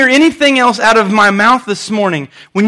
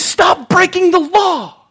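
lawyer's blunt answer; 9 semitones higher, slower than usual. Retold or imitated. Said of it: "He says".

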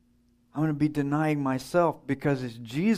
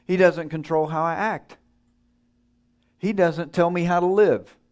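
louder, proud and defiant; defiant declaration; 2 semitones higher, 4 dB louder than usual. Retold or imitated. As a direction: claim your own independence. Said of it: "He is saying".

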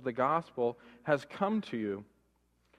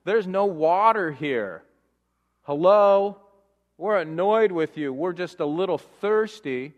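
mock-klagend, wat hoger en luider, geïrriteerd; mopperende Israëlieten; 2 semitones higher, 5 dB louder than usual. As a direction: doe een zeurend volk na dat om water klaagt.

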